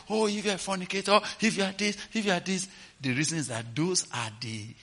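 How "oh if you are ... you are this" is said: fast dismissive rattling off; mocking list. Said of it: "why do we have to enumerate".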